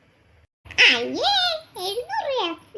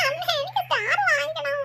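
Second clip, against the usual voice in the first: tearful whining; 4 semitones higher than usual. Acted. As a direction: beg mother through put-on tears. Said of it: "ഈ കണ്ണീരൊഴുക്കി കരയുന്നത്". (കരഞ്ഞു കെഞ്ചുന്നു)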